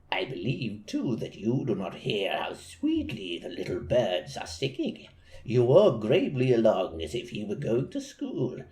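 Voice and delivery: a hint of a sly wolf sweet-talking the girl. Wolf voiced in read story.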